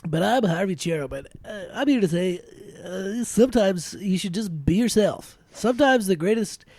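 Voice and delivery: lightly voiced movie star sincerity; Harvey Cherub voice. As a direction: preach self-acceptance like a star. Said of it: "That's my new movie star voice".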